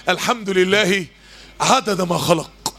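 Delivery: slow counted recital. Shown as a demonstration. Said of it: "عدوا معايا".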